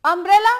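अम्ब्रेला loud, starting with a short अ, not यू; pronunciation demo. Shown as a demonstration. Teacher shows how the u word is pronounced. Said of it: "पर जब इसका उच्चारण होगा तो अम्ब्रेला".

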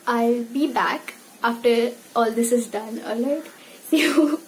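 stiff cheeks, limited lip movement; talking through wet face mask; wearing a sheet mask. Real, not acted. Seen 2: Sheet mask covers face throughout; gone by +10.7 and in R frames.

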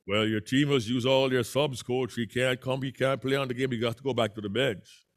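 a Jamaican referee sending the coach back; Jamaican accent. Retold or imitated. Referee tells the coach his player can't go in, light Jamaican accent. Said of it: "I had more of a Jamaican accent and a deeper voice".

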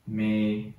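me said alone, low and soft, unstressed; isolated syllable. Shown as a demonstration. Teacher breaks down a word for learners, me as a soft separate syllable. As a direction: give just the weak first syllable me, quietly. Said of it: "直接把音节划分出来".

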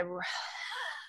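empty the lungs on a sigh; long breathy sigh out. Shown as a demonstration. Showing how she gets into Ivanka, sighing all the air out. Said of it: "it's a breathing thing".

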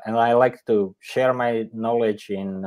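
ordinary talk, nothing marked

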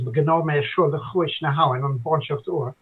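guttural Irish verse, evenly recited. Shown as a demonstration. Language learner quoting a poem to show gutturality, guttural Irish. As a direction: recite the Irish line with throaty consonants. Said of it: "cite a particular poem in Irish".

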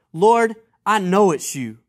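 confident misreading. Shown as a demonstration. Preacher mock-misreads Peter to the congregation, confidently. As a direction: state 'I know' with certainty. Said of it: "maybe I didn't read that right".

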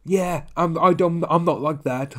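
half-hearted sneering impression; mocking Ron. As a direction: parody a man defending himself online. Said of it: "That's exactly how Ron sounds through his tweets".

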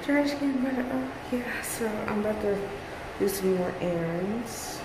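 muffled behind a mask; through fencing mask. Real, not acted. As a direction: talk through a face mask. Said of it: "I hope you can hear me in my mask".

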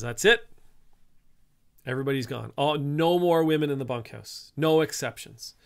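loud, firm ranch boss putting his foot down; stern ranch owner. Retold or imitated. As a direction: bark the order like the boss who won't budge. Ranch owner lays down the law.

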